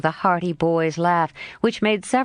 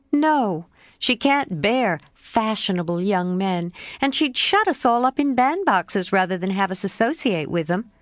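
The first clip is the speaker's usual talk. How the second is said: a hint of a frank young girl, pitched up; Jo's voice; 3 semitones higher than usual. Jo answering her friend Laurie, lightly voiced girl.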